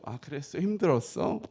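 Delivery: soft, held-back reply; restrained sympathy. Retold or imitated. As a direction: answer mildly, swallowing the complaint. Holding back, answers wife mildly.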